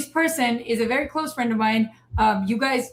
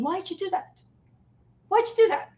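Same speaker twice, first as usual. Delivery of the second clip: high, mocking question; mock prying agent; 8 semitones higher, faster than usual. Speaker mocking border agents, high mock question.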